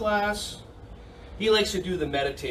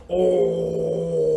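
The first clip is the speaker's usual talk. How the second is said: bear sound; 4 dB louder than usual. Shown as a demonstration. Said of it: "Do an O face like that and go".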